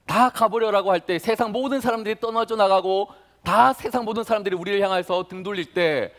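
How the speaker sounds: ordinary talk, nothing marked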